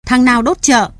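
high, loud demanding yell; furious crowd shouting after him; angry shout. Acted. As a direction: bark the question after the arsonist. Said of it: "tiếng người quát tháo".

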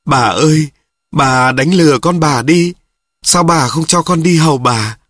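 a mild, hammed-up lament over the body; tearful wail. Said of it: "Cô Lài khóc".

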